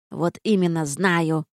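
slow grumpy retort; grumpy snap. Acted. Gargoyle snaps at cheeky Kristof, slow grumpy retort. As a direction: snap back, fed up with him. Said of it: "сварливо огрызнулась горгулья".

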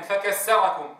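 فكسركم with س in place of ث; wrong pronunciation. Shown as a demonstration. Teacher imitates the error of saying s instead of th. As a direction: say فكسركم with an s sound. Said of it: "أو الثاء سينا".

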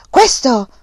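loud, high single blow of a word; shouted. A narrator's reading. Uncle shouts while slapping nephew, loud. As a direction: bark it as he slaps. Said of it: "gridò".

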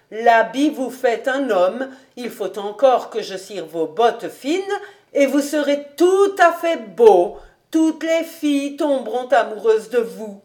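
lightly voiced housekeeper, emphatic praise; flattering old housekeeper. Housekeeper promising master all girls will love him, flattering. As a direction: flatter him with lively stresses.

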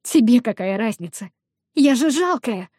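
tearful. Acted. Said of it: "всхлипываю полным соплей носом".

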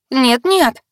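high, loud wail. A narrator's reading. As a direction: wail in panic. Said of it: "завопила я".

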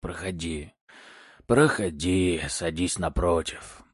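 put-on hoarse, slow old master voice; raspy old man. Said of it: "хриплым голосом сказал мужчина".

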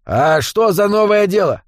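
insinuating. A narrator's reading. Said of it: "вкрадчиво поинтересовался Джо".

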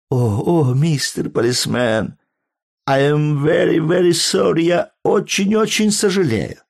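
high, pleading frantic apology; old tourist pleading with a policeman, climbing high in panic; flustered old man apologising. A narrator's reading.

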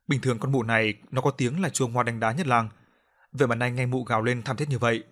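ordinary delivery

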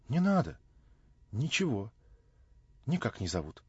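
abrupt little answers with a touch of vexation; curt annoyance. A narrator's reading. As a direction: cut it short, mildly vexed. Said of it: "Отрывисто и как будто с досадой проговорила она".

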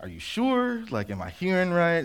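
sudden high incredulous questions; surprised disbelief. Retold or imitated. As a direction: jump up high, unable to believe it.

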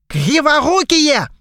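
high, loud, slow angry bark; barked insult. Acted. Pirate captain barks at his clumsy crew, high and loud. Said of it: "рявкнул голос".

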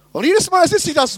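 talking to himself in a high whining voice; mock self-reproach, high and exasperated; high self-scolding whine. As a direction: scold yourself, pitch up high. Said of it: "Sag ich mir, Johannes".

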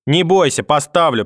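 contemptuous. Acted. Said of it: "презрительно сказала бабушка".

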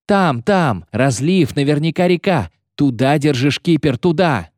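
high, urgent calls; excited shouting. A narrator's reading. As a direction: direct the skipper from afar. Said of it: "крикнул с носа Фиш". (взволнованные выкрики)

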